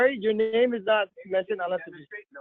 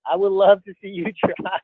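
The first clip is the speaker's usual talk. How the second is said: laughing. Real, not acted. Teasing a friend about his icebreaker, laughing. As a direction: repeat it, cracking up on the last word. Repeats tease, breaks into laugh.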